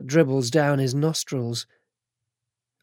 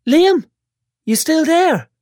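put-on high, tearful, whiny girl; a bandaged girl fighting tears; whiny young woman; 14 semitones higher, 5 dB louder than usual. Chantal voiced.

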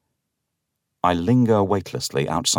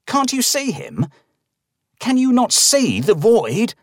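very high, panicked shriek; 3 dB louder than usual. A narrator's reading. Narrator shrieks at the old man, very high. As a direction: shriek it in terror. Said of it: "I shriek".

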